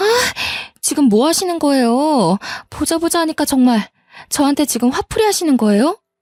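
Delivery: fed-up, indignant voice. Retelling yelling back at a trainer: retelling own angry shout. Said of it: "저도 소리를 지르기 시작했습니다".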